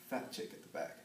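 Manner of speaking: hushed, breathy punchline; whispered punchline. Retold or imitated. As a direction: drop to a conspiratorial whisper.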